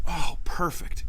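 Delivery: breathy whispered relief to himself; relieved whisper. Retold or imitated. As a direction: whisper it like a private sigh of relief. Quiet relief while parking.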